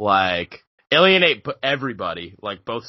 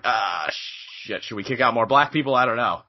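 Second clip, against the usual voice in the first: mock dithering; 2 semitones lower than usual. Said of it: "now Starbucks is like".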